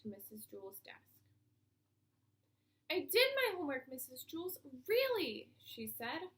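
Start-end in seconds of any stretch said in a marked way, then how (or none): 2.9-5.5 put-on bright, high and loud eager girl; a kid rushing to please her teacher; eager child voice. A narrator's reading. BB eagerly tells her teacher about her homework.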